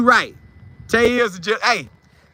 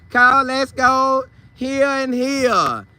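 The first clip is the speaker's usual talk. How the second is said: slow, higher voice playing the wife; wife's voice; 5 semitones higher, much slower than usual. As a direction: lightly imitate his wife making plans, drawn out. Wife quoted planning outings.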